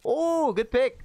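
high, loud quick cheer; excited praise. Real, not acted. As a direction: hype up the good pick. Praising a teammate's kill.

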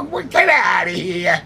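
slow, stretched-out disbelief; retold incredulous cry; incredulous exclamation. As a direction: draw it out in mock amazement. Retold disbelief at movie offer.

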